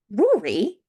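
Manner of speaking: mock-stern telling-off; reprimanding. A narrator's reading. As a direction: pull him up sharply by name. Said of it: "I reprimanded".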